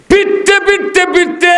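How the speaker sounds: high, repeated beating cry; frenzied retelling. A narrator's reading. Preacher acts out Umar beating them, high and frenzied. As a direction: hammer each word like the blows.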